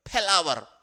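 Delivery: usual speaking voice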